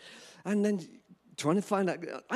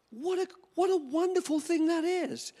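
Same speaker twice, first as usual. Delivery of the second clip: quoting an admirer; 12 semitones higher than usual. Retold or imitated. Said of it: "And this guy said".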